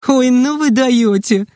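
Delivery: high, slow, amused moan; groaning with laughter.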